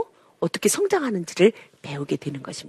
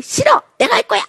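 put-on high, shrill-free toddler refusal; a toddler's high-pitched refusal; defiant toddler; 7 semitones higher than usual. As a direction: play a stubborn little kid yelling no. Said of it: "막 이런단 말이죠".

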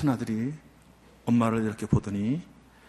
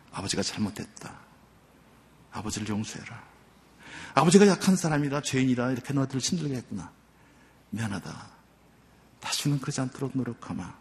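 remorseful apology. Retold or imitated. Father kneels, apologizing to sons.

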